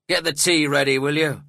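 loud, fierce order; narrated fierce command. A narrator's reading. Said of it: "he added fiercely to the young woman".

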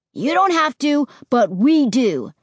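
loud, slowing, insistent; insisting. Acted. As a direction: press each word, won't back down. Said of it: "Josh insisted".

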